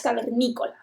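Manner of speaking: cavernícola stressed on the NÍ syllable; correct word stress. Shown as a demonstration. Teacher giving the correct word accent, stress on NÍ of cavernícola. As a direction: land on NÍ in cavernícola, then let it fall away. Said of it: "Eso es el acento de palabra".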